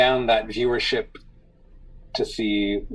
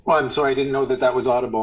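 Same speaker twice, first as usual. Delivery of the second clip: laughing apology; much faster than usual. Real, not acted.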